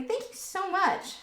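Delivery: slow, high, choked-up thank you; fighting back happy tears; softly tearful gratitude; teary thanks. Real, not acted. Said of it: "trying not to be all teary".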